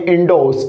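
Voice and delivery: "इंडोस" with no r sound; correct pronunciation. Shown as a demonstration. Teacher repeats for students the correct "इंडोस", r silent. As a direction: say "इंडोस" with long o straight into s. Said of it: "उच्चारण बोला मैंने".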